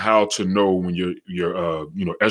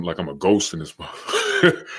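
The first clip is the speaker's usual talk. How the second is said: laughing; 2 semitones lower, 4 dB quieter than usual. Real, not acted. Joking about his bad lighting.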